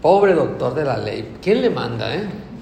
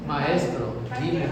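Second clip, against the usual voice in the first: pompous pharisee; 5 dB quieter, slower than usual. Pretend. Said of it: "caminar con ese tono así".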